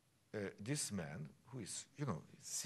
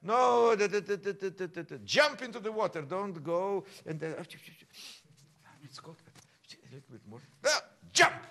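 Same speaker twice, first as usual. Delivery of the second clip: loud, high calls to jump; calling out over the music; urgent coaching shouts; 8 semitones higher, 12 dB louder than usual. Real, not acted. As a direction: push the student over the edge.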